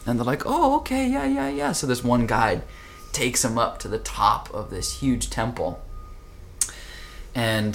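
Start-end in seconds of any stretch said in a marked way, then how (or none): 0.5-1.7 high, eager yeah yeah yeah; chirpy, keen agreement; eager agreeing. Retold or imitated. Monks agreeing to fetch the head monk, high eager reply.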